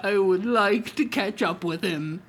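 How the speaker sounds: breaking into laughter mid-line; laughing through the line. Acted. Old man to his stuffed tiger, laughing. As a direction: try to stay in role but laugh. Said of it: "stuffed animal".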